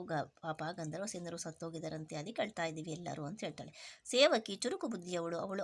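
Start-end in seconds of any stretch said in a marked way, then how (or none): 0.2-3.2 softer, a queen's mild sad sigh; ದುಃಖದ ನಿಟ್ಟುಸಿರಿನೊಂದಿಗೆ ಮೃದುವಾಗಿ; sighing sadly. Shown as a demonstration. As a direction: breathe the words out in sorrow. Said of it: "ನಿಟ್ಟುಸಿರು ಅಂದ್ರೆ ಇದು ದುಃಖದಿಂದ ಉಸಿರು ಬಿಟ್ಬಿಟ್ಟು".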